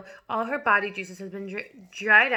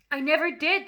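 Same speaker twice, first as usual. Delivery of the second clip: exclaiming; 7 semitones higher, 5 dB louder than usual. A narrator's reading. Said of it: "the boy exclaimed".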